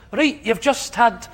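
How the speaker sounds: imitating a Scottish PA, half-hearted; bad Scottish accent. PA reads out the day's job in a weak Scottish accent. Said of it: "It's not that good accent".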